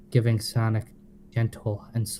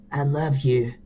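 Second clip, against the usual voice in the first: murmured; 5 semitones higher, 4 dB louder than usual. Acted. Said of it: "Sonic murmured".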